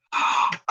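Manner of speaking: quick unvoiced gasp of delight; sharp gasp. Real, not acted. Streamer reading a viewer's tip, sharp gasp of delight. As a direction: suck in a breath at the good idea.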